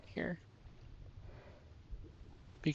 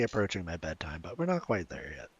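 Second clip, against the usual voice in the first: sleepy yawn; 10 semitones lower, 7 dB quieter, faster than usual. Real, not acted. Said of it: "I apologize for yawning".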